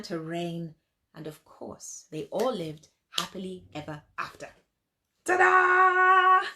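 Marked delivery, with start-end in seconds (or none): 5.2-6.5 higher and louder showy finale; ta-da finish. Real, not acted. The storyteller finishes the tale for the children with a loud flourish. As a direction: present the ending with a flourish.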